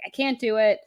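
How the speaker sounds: mock freak-out. Girl backing out of the role play, mock freak-out. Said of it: "she just kind of freaks out".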